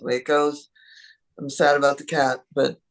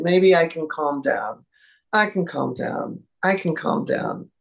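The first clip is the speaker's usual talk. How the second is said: calming herself down. Pretend. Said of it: "and then recognize".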